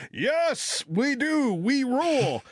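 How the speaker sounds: high, swooping collective cheer; mock joyful cheer. Half the coffee shop answering the Australian clerk, mock joyful cheer. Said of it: "there was this joyful".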